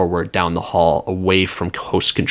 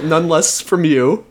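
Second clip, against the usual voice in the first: put-on old prospector; 8 semitones higher, slower than usual. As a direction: scold like a cranky old miner. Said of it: "in this type of voice".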